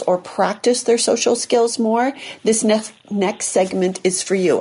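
talking with a numb mouth. Real, not acted. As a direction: speak like your mouth won't move. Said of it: "clearly I can't move my mouth".

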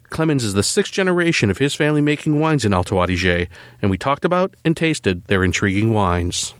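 measured, polished host read; scripted podcast intro. Acted. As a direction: tease the episode like a radio presenter. Reads scripted episode introduction.

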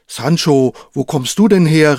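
thin, reedy, surprised call; a surprised old knight's thin voice. Acted. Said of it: "rief Quixote überrascht mit dünner Stimme".

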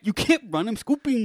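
high, loud hammy yell; high shouted mock. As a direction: yell it squeaky and silly. Acted chase scene.

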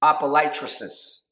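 practising a Greek word; Greek word repeated. Shown as a demonstration. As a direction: repeat Apolytrosis carefully. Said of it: "try to say this word in the Greek".

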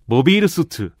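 Japanese-style 모비일 수트 with long 비일; 모비일 수트 drawn out the Japanese way; Japanese accent Korean. Retold or imitated. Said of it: "일본인들은 발음이 그게 안 되니까".

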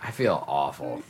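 groggy and low after drinking; hungover. Real, not acted. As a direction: sound worn out from last night. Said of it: "I drank way too much last night".

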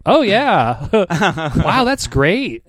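laughing through the words; mock delight while laughing. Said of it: "I was like".

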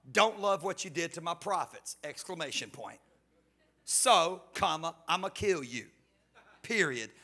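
loud, hammed-up threat read with punctuation; Jezebel's hammed-up threatening letter; mock angry letter. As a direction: play Jezebel's furious note for laughs. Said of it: "it's something like this".

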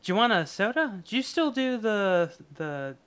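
mock soda jerk. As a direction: sell him the sodas cheerfully. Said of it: "soda jerk offer".

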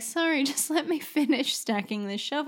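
lightly voiced entitled Karen, laughing through it; a hint of a dismissive shop worker brushing off an emergency. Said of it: "such a Karen was like".

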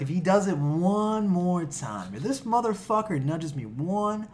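slow, deliberate vow to himself; inner tough guy. Retold or imitated. Retelling his camp self-talk before the punch, slow and determined. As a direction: lay out the threat slowly, like an action hero. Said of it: "I was like".

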